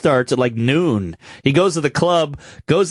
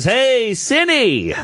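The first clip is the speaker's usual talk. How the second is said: raised, drawn-out mock greeting; lightly voiced club owner; 6 semitones higher, much slower than usual. Club owner phones Sinbad about stolen gear, lightly mocking hail. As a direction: call out a teasing phone hello.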